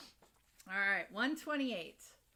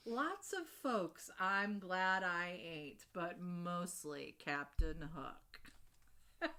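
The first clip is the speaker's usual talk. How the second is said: rhythmic comic verse read-aloud; measured storyteller's delivery; poem reading. Acted. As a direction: build the list, then slow right down for the last line. Reads a Captain Hook poem.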